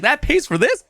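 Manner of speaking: high, eager voice of an amazed mover; high-pitched mover voice in disbelief. Retold or imitated. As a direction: play the stunned, thrilled mover. Mahmoud's amazed reaction retold.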